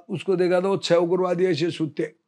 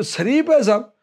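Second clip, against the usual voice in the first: higher-pitched mock surprise; incredulous question; 5 semitones higher, 3 dB louder than usual. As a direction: question it as a disbelieving officer would. Retold officer doubts the ironic praise. (हैरानी भरा ऊँचा सवाल)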